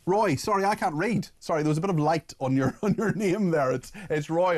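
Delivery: laughing at his own slip, pitched well up; embarrassed laughing apology. Real, not acted. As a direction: giggle through the apology for the wrong name. Host laughs at misreading name.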